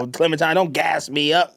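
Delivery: playful mock-British line; attempted British accent. Brushing off the co-host's praise, mock British accent. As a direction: put on an amateur British accent. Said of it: "How you do a British accent".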